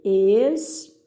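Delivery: "Expelir" split into ex, pe, lir with pauses; separando sílabas. Shown as a demonstration. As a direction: dictate "Expelir" syllable by syllable. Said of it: "separe as sílabas dessas palavras". ("Expelir" pausado, sílaba por sílaba)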